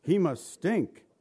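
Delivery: mildly voiced complaining Martha; a light whiny protest, slow; Martha objecting. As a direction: Martha fussing that he'll stink. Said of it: "she objects".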